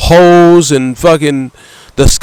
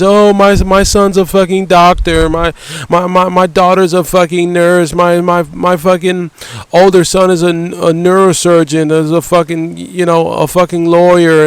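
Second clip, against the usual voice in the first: higher, boastful proud-parent voice; mocking bragging parent; 3 semitones higher than usual. Ranting vlogger mocks parents bragging at parties, high boastful voice. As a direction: mimic a parent showing off their kids. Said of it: "to boast about at parties".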